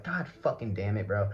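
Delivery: low, quiet weary curse; retold exasperation. Patient woken every hour all night, quietly exasperated. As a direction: grumble it softly, mildly fed up.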